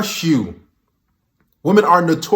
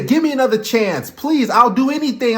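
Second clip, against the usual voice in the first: higher-pitched mock plea; imitated begging; 5 semitones higher than usual. Commentator mimicking a man begging a woman back, mock pleading. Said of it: "when you beg like that".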